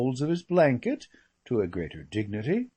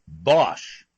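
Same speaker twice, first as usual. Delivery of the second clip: mock scornful lady; 6 dB louder than usual. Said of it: "the one down at the pavilion simply said".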